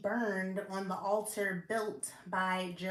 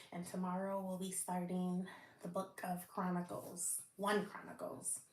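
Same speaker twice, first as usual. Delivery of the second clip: breathless, short shallow breaths; running out of air while reading; 2 semitones lower, 7 dB quieter, faster than usual. Real, not acted. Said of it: "I'm out of breath".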